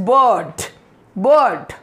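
BIRD as "buhd", long central vowel; "bird" with a drawn-out uh and no R; bird with silent R. Shown as a demonstration. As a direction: drop the R in "bird". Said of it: "र बीच में आ रहा है तो वो अ".

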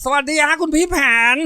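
put-on very high, loud boyish greeting; full-throated kid's hail; top-of-the-throat shout. A narrator's reading. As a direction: holler hello like an excited young boy. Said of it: "ส่งเสียงตะโกนสุดลำคอ ร้องทักบ".

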